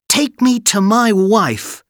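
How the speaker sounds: high, loud urgent order; urgent boy. Acted. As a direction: demand it urgently. Aladdin commands.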